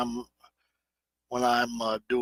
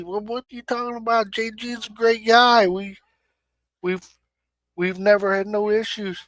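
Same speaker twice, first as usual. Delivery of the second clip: indignant retort; 7 semitones higher, 3 dB louder than usual. Retold or imitated. Imagined reply defending a friend.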